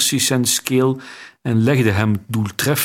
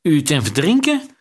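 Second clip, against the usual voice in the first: higher, more panicked repeat of U te verdrinken; panicky repeat; 4 semitones higher than usual. A narrator's reading. Nasal accomplice repeating to the queen, panicking. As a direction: echo it again, voice climbing in alarm. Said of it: "herhaalde hij".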